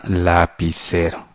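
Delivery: slow and soft, syllable by syllable; slow dictation. Shown as a demonstration. Teacher dictates the other noun to pupils, slow soft dictation. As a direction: stretch out lapicero softly for someone writing it.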